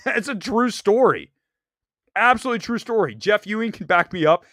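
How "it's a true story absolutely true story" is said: laughing. Real, not acted.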